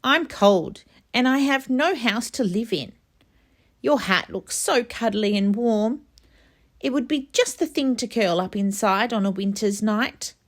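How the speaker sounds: a lightly voiced, miserable mouse; tiny sad mouse. A narrator's reading.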